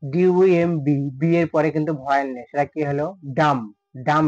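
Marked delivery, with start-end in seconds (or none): 3.4-4.2 "ডাম" ending on m, B fully silent. Shown as a demonstration. Teacher explaining B after M, "ডাম" without any b. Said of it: "বি এর উচ্চারণটা পুরোপুরি silent".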